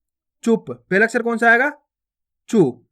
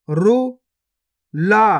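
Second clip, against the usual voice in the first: गुफा drawn out very slowly, each sound held long; slow stretched reading; much slower than usual. Shown as a demonstration. Teacher showing pupils each sound, drawn out very slowly. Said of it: "पहले तो आपको शब्द को गौर से सुनना है".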